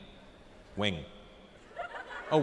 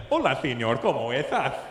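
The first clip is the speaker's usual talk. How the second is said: Spanish lisp; 3 semitones lower than usual. Retold or imitated. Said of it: "They speak Spanish with a lisp".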